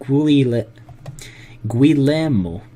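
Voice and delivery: Guillermo said with a mock Italian accent, rolled and sung out; a butchered Italian accent on Guillermo; playful Italian-accented Guillermo. Shown as a demonstration. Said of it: "I just tried to pronounce that with a bit of an Italian accent".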